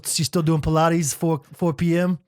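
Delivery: lightly voiced New Yorker, a bit slow; a hint of a New York accent; mild New York hustler voice; vague put-on accent. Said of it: "I don't even know what my accent was".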